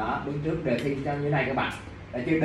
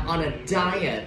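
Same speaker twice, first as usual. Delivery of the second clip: "On a diet" with "DI" of "diet" stressed; first-syllable stress on diet; slower than usual. Shown as a demonstration. Teacher pointing out stress to students, "On a diet" stressed on "DI". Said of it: "Nhắn vô thứ nhất chữ diet".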